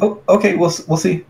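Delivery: high, squeaky little voice; tiny bee voice. Acted.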